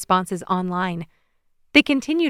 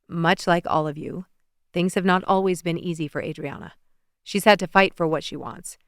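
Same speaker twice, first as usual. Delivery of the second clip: a hint of a lower, earnest young president; lightly voiced Alexei; 3 semitones lower than usual. Alexei to TV audience, lightly voiced earnest speech. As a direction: speak up for her sincerely.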